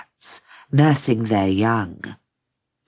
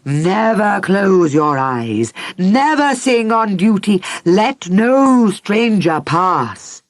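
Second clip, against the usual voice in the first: stern queen's orders; 5 semitones higher, 4 dB louder than usual. Acted. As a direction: lay down the law to the guards.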